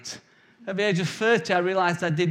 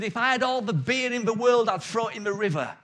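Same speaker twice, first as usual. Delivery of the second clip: ranting temperance preacher; 4 semitones higher than usual. Retold or imitated. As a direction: preach against the beer with mild pulpit fervour. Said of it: "he was preaching, and he said".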